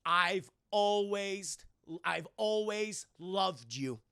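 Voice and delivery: very slow, halting declaration; solemn, retold dying father; tender farewell. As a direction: draw out each word like a last goodbye. Dying father signs farewell to daughter.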